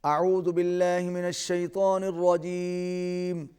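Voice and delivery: teacher modelling a recitation; Quran recitation. Shown as a demonstration. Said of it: "آئیے سبق کی ابتدا کرتے ہیں".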